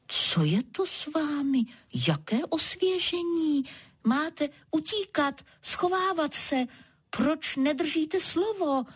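high, upset little cloud voice; indignant little cloud. Acted. Little cloud scolding the turtle and zebra, high and upset.

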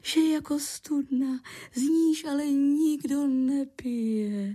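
high-pitched female character voice; complaining woman. A narrator's reading. Lady answers the man on the walk home, high-voiced complaint. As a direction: narrator lifts the voice high for her complaint. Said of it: "a ona naopak".

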